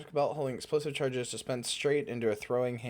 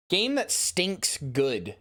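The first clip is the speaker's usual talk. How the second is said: slow savoring; 5 semitones higher, much slower than usual. Acted. Streamer savoring catchphrase, slow.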